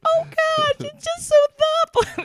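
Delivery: very high, loud, gushing mock mom; imitating teary mom. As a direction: squeal it like an overwhelmed mother. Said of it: "my mom will open a gift, and she's like".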